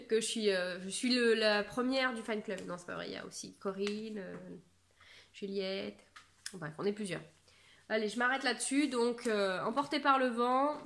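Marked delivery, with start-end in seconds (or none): none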